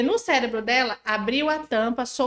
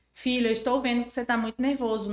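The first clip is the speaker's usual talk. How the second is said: calm naming feelings. Shown as a demonstration. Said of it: "Nomeia sentimento".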